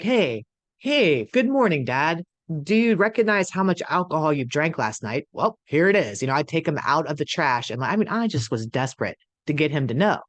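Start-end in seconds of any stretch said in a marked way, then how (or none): 0.0-6.2 a hint of a pointed fake-cheery wake-up call; mock chipper confrontation. Retelling confronting dad as a kid.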